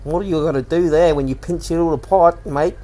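broad put-on Aussie accent; performed Aussie lifeguard-show accent; Australian accent. Shown as a demonstration. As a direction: lean into a hammy Australian accent. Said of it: "that's how I get into it, is saying".

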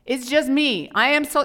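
high, loud whining; mock self-pity wail; whiny. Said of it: "He's basically saying".

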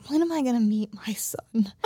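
half-whispered, mock-forlorn question; mock plaintive. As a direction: ask it with hushed mock longing. Acting Zorro's plaintive line.

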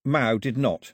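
plain reading voice

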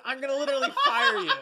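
fast, loud, laughing "I'm gonna literally fire you"; fake-fire the cohost while cracking up; a hammed-up threat; laughing mock threat.

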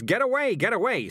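involuntary cry to shoo someone off; sudden outburst. Acted. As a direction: burst out as if you can't help it. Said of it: "I just burst out and say things".

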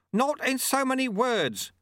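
high, slow, stretched-out call; shouting. A narrator's reading. Sweeper answers apprentice while steering a falling stick, shouting. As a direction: call back high, drawing the words out. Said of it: "shouted Lutze".

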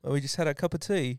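everyday English accent, lightly done. Shown as a demonstration. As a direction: chat in a put-on English accent. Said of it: "different types of English accents".

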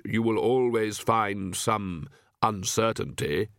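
slow, hollow voice of Death; Death's voice. Acted. Death answering Granny in the dark, grave and hollow. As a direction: speak as Death, unhurried and grave.

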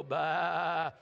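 mock sheep bleat at your neighbour. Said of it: "point to him and go".

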